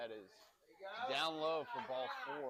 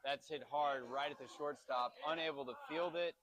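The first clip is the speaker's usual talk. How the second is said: excited call; 2 semitones higher, 4 dB louder than usual. Real, not acted. Parent calling the hit for stream viewers, excited call. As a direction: call the run scoring with a jolt of excitement.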